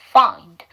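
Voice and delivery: find low and loud, with a light 으 after the d; added eu after D. Shown as a demonstration. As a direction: model find firmly, n closed, faint vowel on the d. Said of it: "음모음 붙여주시면 돼요".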